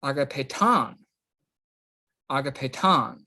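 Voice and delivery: "Agapeton" as ah-gah-pay-TON; Greek pronunciation demo. Shown as a demonstration. Teacher models the word for students, "Agapeton" ending on a stressed TON. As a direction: stress the last syllable of "Agapeton", letting it fall. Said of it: "pronounce this one correct".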